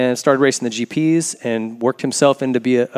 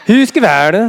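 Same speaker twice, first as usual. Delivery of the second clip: high, loud laughing name; 7 semitones higher, 5 dB louder, much slower than usual. Real, not acted. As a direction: laugh through the word.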